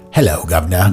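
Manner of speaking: lightly put-on bad British accent; mock British audition voice; horrible British accent. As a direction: greet like a badly faked Brit. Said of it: "I did a horrible British accent".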